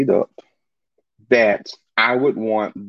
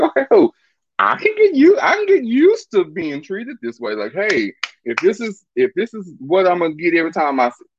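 excited; 6 semitones higher than usual. Retold or imitated. Gushing over being treated well.

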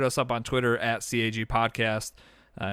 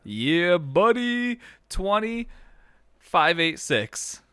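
excited announcer; 6 semitones higher, much slower than usual. Acted. Announcing the new record.

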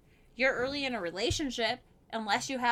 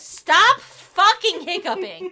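laughing loud and slow; can't stop laughing at her; 5 semitones higher, 12 dB louder, much slower than usual. Real, not acted. Laughing at friend's hiccups.

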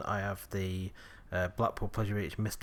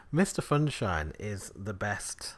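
whispered; slower than usual. Pretend. Whispered mascot praise.

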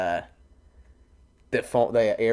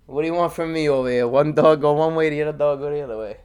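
Fat Tony impression; 3 semitones higher, 5 dB louder than usual. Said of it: "he's doing Fat Tony".

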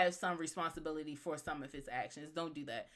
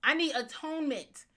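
Jason Todd; 7 semitones higher, 4 dB louder than usual. Acted. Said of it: "if I was Jason Todd".

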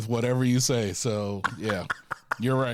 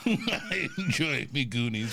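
pirate voice; 2 semitones higher, slower than usual. Pretend. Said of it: "sounded like a pirate".

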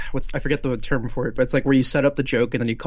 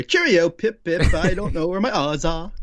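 a deliberately awful Cockney-ish British accent; bad British accent; 4 semitones higher than usual. Shown as a demonstration. Screenwriter showing off his awful British accent, hammy. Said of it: "That is my British accent".

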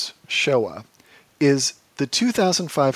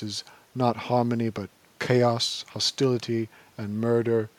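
Herzog impression. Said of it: "Herzog in voiceover".

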